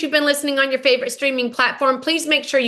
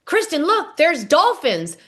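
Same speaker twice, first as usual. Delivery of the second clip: excited calling out; 4 semitones higher than usual. Retold or imitated. Calling out to friend on boat.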